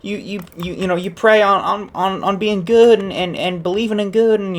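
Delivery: high-pitched, stammering grandma plea; pleading grandma. Acted. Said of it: "she starts talking about".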